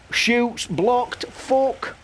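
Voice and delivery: sudden high yelp of frustration; excited outburst. Real, not acted. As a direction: pitch jumps high as the shot is blocked. Tense last-minute corner, shot blocked.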